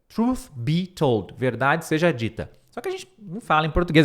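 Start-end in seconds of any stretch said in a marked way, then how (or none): 0.1-1.3 slow model phrase. Shown as a demonstration. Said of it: "essa frase é muito legal".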